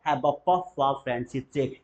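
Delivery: slow and soft, puff stressed; slow drill line; slow repeat. Shown as a demonstration. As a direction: model it gently. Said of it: "बोलेंगे जरा".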